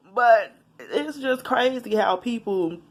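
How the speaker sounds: slow, still laughing; a real laugh fading into the line. Real, not acted. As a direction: let the laugh carry the words. Still laughing after age joke.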